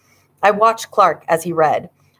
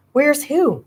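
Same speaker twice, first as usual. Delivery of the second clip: stammered; 8 semitones higher than usual. A narrator's reading. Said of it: "Clark stammered".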